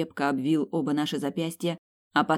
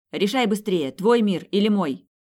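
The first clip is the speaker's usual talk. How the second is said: raised, high urgent demand; hurrying her; 5 semitones higher, 5 dB louder than usual. A narrator's reading. Ethan rushes her to choose, urgent raised voice. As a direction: press for an answer, voice lifted. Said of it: "и поторопил".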